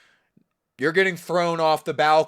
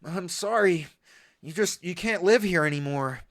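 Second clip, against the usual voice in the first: Sykkuno voice; 4 dB quieter than usual. Acted. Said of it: "I can do the Sykkuno voice".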